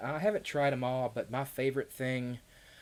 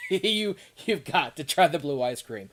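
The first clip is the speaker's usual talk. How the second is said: excited; 6 semitones higher, 10 dB louder than usual. Real, not acted. Urging viewer to try ice cream.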